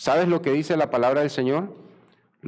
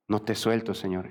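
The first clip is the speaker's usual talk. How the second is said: soft, low plea, mildly tearful; 3 semitones lower, 4 dB quieter than usual. Acted. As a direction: plead quietly, a touch of tears. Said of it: "en lágrimas". (súplica suave, apenas llorosa)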